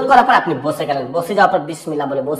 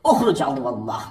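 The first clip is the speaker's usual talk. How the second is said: commanding incantation; 5 semitones lower, 4 dB quieter than usual. Shown as a demonstration. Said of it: "এভাবে".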